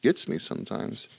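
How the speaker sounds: breathy whisper. Real, not acted. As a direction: drop to a whisper. Spooky bedtime confession.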